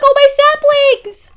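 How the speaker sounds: high, slow, loud wail; wailing dismay. Real, not acted. Streamer wailing to chat over burned saplings.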